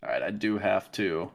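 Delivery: drowsy, half-asleep speech; nodding off. Real, not acted. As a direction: talk like you're nodding off in your chair. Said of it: "I'm falling asleep in my chair".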